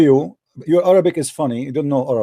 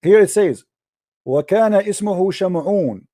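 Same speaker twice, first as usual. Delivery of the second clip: reading the verse aloud; faster than usual. Shown as a demonstration. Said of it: "Let me read it for you".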